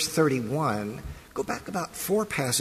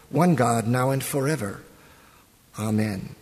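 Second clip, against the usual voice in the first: prayer. Acted. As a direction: lead the congregation in prayer, unhurried. Pastor leads opening prayer.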